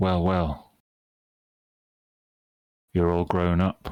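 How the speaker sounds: crackling, whirring, modulated half-machine voice. Voicing Reginald's apparition greeting Freddy: modulated, partially electronic voice. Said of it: "In a modulated, partially electron-, electronic voice".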